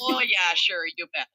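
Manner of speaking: light mock Minnesotan accent; a hint of Minnesotan twang. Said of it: "their worst Minnesotan accents".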